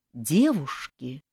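slow, drawn-out ghostly call; infernal ghost voice. A narrator's reading. Ghost bride calls the sleeping girls, drawn-out and eerie. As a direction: call them like a spectre from beyond. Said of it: "инфернальный вибрирующий женский голос".

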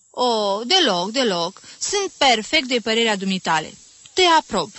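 a flustered mother gushing her approval; eager agreement. Acted.

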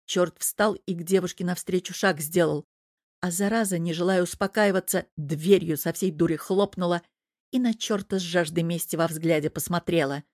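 usual speaking voice

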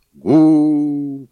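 loud high rumbling gu; loud echoing gu; booming gu. A narrator's reading. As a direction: boom it out like a rolling stone. Stone rolls down valley.

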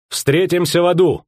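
defiant cry. A narrator's reading. Defiant farewell in battle.

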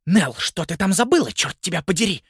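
громко и выше, с досадой; бранит племянницу; ругань. A narrator's reading. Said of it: "выругалась Скарлетт Гринбаум". (тётя сердито бранит Нелл)

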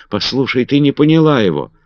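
high, loud pleading cry; high loud desperate plea to her cousin. A narrator's reading. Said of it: "с криком бросилась к Маргарет".

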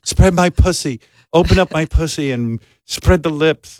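imitating porn dirty talk; mock porn-star demand. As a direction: parody a porn actress barking orders. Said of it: "you never hear go".

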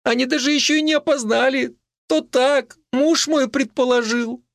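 put-on high, light young woman's voice; a frightened young wife answering, voiced high; Marika's voice. A narrator's reading. Wife speaking to the old neighbour, high young woman's voice.

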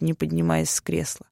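usual speaking voice

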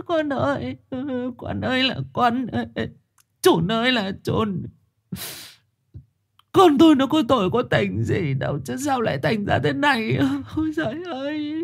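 high, wailing lament; keen for her lost son; wailing in tears. Acted. Mother Thu bursts into tears, wailing for her son. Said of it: "bật khóc".

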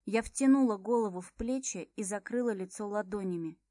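ordinary delivery, nothing marked

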